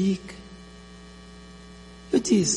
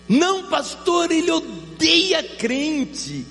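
imitating the wife; 12 semitones higher, much slower than usual. Pastor imita a irmã.

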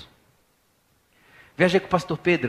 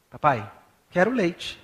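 put-on toddler asking; slower than usual. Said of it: "E ele fala assim".

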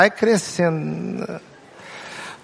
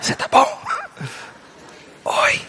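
soft greeting; 3 dB quieter than usual. Retold or imitated. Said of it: "todo mundo converse comigo assim".

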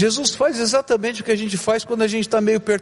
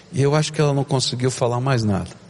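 ordinary delivery

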